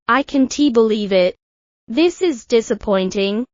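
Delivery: understated letdown, falling on "believe it"; a hint of disappointment; mild disappointment. Shown as a demonstration.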